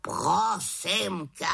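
slow exasperated exclamation; exclaimed. Acted. Raven exasperated at the witch, slow exclamation. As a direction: roll the eyes at her. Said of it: "vykřikl Havran".

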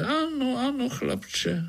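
high, fussy frog lady voice. Acted. Frog lady answers the boy, high and fussy. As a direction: pipe up like an offended lady frog.

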